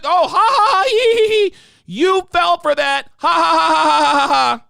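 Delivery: high, loud cackling imitation of laughter; mocking laughter. Coworkers cackling after their prank worked, in mocking laughter. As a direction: cackle at him like the coworkers did. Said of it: "They all had a good".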